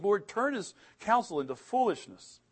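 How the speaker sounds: imitating an urgent cry to God. David cries out to the Lord, crying out. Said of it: "He cried out to the Lord".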